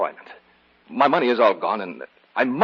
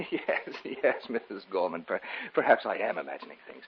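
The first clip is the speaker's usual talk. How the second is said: softer, uneasy laughing it off; nervous laugh; 2 semitones lower, 7 dB quieter than usual. Acted. David brushing off his fear to the housekeeper. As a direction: cover up the slip with a giggle. Nervous covering after confession.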